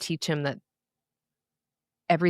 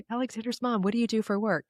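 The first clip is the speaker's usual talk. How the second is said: imitating a classroom questioner; 6 semitones higher than usual. Voices someone in kindergarten class.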